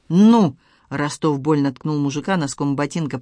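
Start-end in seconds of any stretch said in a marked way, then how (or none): 0.1-0.6 impatient shout. Acted. Cop impatiently demands the rest.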